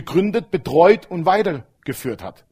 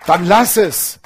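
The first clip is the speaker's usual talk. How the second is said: emphatic command; 2 semitones higher, 6 dB louder, slower than usual. Acted.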